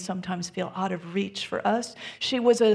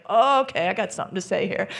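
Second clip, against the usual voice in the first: mock angry husband; 4 dB louder, much faster than usual. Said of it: "feel his energy, become it".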